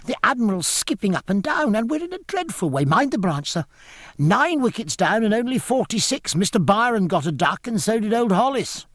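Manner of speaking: put-on high, agitated boy's voice; high-pitched, urgent youngster calling back; Forshaw. A narrator's reading. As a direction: report disaster breathlessly like an excited child. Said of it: "cried Forshaw over his shoulder".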